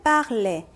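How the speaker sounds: parler in two slow syllables, ending in an "eh" sound; infinitive pronunciation. Shown as a demonstration. Teacher shows how the 원형 sounds, pronunciation model. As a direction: say parler slowly as "par-lé". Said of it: "해서 요 발음이 났어요".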